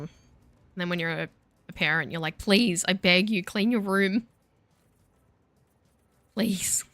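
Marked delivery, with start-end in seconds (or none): 2.4-6.8 drawn-out mock begging; parental pleading. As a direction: plead like a worn-down parent, playfully. Parent begging kids to tidy up.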